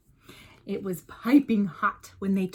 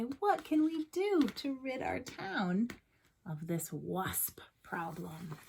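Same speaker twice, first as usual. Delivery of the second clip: hushed townsfolk; 2 semitones higher, 6 dB quieter than usual. Acted. Townsfolk plotting in hushed tones.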